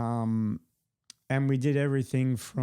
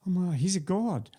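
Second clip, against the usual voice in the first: starstruck panic; 7 semitones higher than usual. Retold or imitated. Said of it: "And he was saying".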